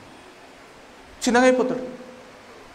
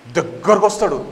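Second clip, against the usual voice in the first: ordinary delivery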